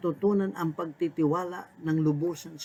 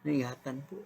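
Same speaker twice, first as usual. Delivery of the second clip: earnest, hushed pastoral prayer; closing prayer. Acted. Pastor leading listeners in morning prayer, hushed and earnest.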